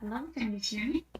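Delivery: faint quick call, far from the mic; very quiet and hurried; barely audible. Real, not acted. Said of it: "your voice is very low".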